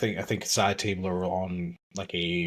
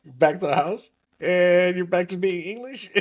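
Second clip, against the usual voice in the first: confused character; 9 semitones higher than usual. Retold or imitated. Confused character voiced in story.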